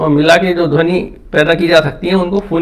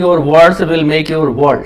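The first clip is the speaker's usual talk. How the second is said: your words will make your world, very slow and even; slow quoted saying; much slower than usual. Shown as a demonstration. Teacher quoting a saying about words, very slow. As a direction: lay the saying down word by word. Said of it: "कहा भी गया है".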